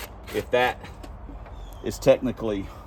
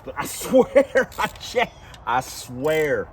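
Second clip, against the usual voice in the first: laughing plea; much slower than usual. Real, not acted. Pleading innocence to viewers.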